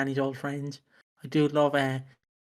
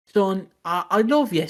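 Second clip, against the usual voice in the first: dad; 4 semitones higher, 5 dB louder than usual. Retold or imitated. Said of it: "my dad would be like".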